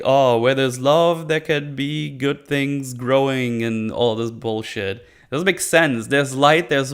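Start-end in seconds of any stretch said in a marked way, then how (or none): 0.0-3.6 mock sentimental. Mocks the show's sappy line.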